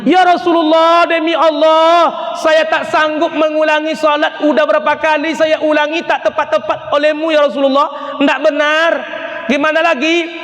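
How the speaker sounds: man pleading he cannot get prayer right. Retold or imitated. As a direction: beg the Prophet in despair.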